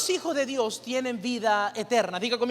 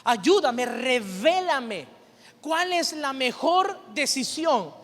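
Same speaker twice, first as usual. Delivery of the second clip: earnest prayer; slower than usual. Shown as a demonstration. Pastor modelling how to pray, slow earnest plea. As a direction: pray it slowly, drawing out revélame.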